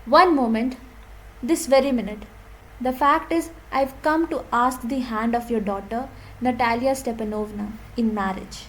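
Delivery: slow, deliberate reading of a play line. Shown as a demonstration. Teacher reading Chubukov's line slowly to students, deliberate. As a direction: read each word out slowly for the class. Teacher reads Lomov's proposal aloud.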